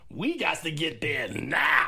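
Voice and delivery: slow, mock-urgent young couple; lightly voiced eager couple; a hint of rushing lovers; mock hurry. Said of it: "It's like".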